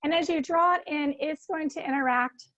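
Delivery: calm, soothing meditation guide; guided meditation. Acted. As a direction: ease listeners into stillness.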